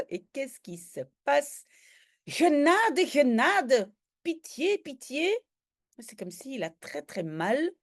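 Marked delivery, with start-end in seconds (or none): 2.2-5.3 acted pleading. Professor begging for mercy.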